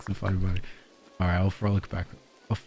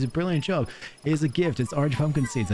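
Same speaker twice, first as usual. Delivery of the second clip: high NPC voice; 6 semitones higher than usual. Retold or imitated. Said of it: "She says".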